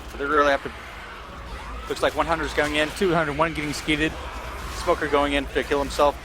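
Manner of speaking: glitchy robotic mic audio; lagging, robotic-sounding mic. Real, not acted. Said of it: "Your mic is all robotic-y right now".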